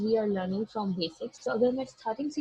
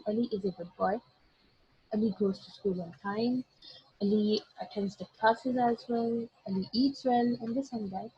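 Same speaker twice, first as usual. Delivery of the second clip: slow example sentence; much slower than usual. Shown as a demonstration. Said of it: "अगर मैं English में कहूँ".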